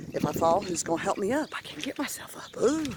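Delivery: winded, breathy and gasping; out of breath. Real, not acted. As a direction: talk while catching your breath. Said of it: "now you can tell I'm out of breath".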